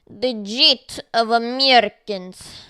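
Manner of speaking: booming mock Russian accent; loud, hammed-up Russian accent. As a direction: bellow it like a cartoon Russian. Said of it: "A Russian accent".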